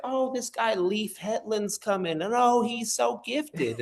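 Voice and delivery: grandma raving about the visiting preacher, mock gushing. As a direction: swoon over the preacher like an adoring grandma. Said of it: "and she's like".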